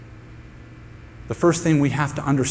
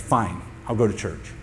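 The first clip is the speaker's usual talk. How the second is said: grudging sigh; 5 semitones lower, 5 dB quieter than usual. Retold or imitated. Reluctant giving in.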